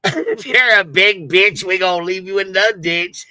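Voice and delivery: loud repeat broken by real laughter; laughing quote. Real, not acted. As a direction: laugh through the line while quoting it. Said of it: "why the fuck am I laughing like this".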